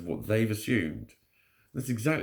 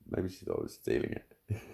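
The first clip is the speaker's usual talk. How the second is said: whispered repeat; 3 semitones lower, 6 dB quieter than usual. Real, not acted.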